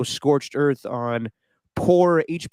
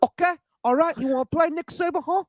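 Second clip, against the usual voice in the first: still laughing; 14 semitones higher than usual. Real, not acted. Giggling reply after teasing.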